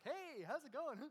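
light, airy greeting with a laugh; breezy carefree doctor. Retold or imitated. Doctor breezily greeting his patient in pain, light and laughing. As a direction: toss it off like you don't care. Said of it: "he's very aloof, and he's happy-go-lucky".

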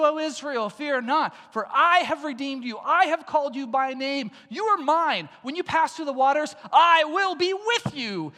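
rising, fervent scripture reading; preaching scripture. Acted. Preacher reading Isaiah to the congregation, fervent. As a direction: proclaim it to the congregation. Scripture read at full force.

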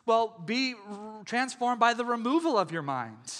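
misquote it like someone not paying attention; mock lazy misquote. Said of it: "the attitude becomes".

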